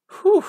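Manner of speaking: loud high whoosh of relief; real relief; relieved whew. Real, not acted. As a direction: blow out the breath, very relieved. Near loss averted.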